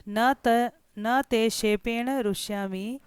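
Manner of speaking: slow, measured recitation of the verse line; reciting Sanskrit verse. Shown as a demonstration. Teacher recites the king's verse line, slowly. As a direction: chant the verse slowly to the class. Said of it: "अब राजा कहता है".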